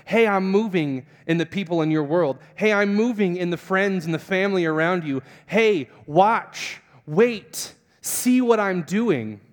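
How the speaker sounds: emphatic call to pay attention; urging voice of God. Retold or imitated. God shows a doubter he is at work, urging.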